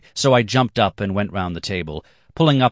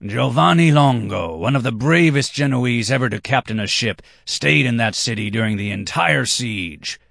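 higher, louder proud cry; 6 semitones higher, 4 dB louder than usual. Acted. Red-haired man proclaims the Genoese hero, loud and proud. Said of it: "cried the red-haired man".

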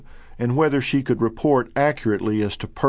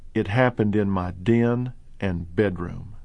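soft slurred voice; 4 semitones lower than usual. Retold or imitated. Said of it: "In a soft, slurred voice".

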